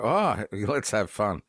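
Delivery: slow, playful line with a laugh; mischievous. Retold or imitated. To a passer-by, a slow gleeful chuckle. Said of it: "glint in my eye and go".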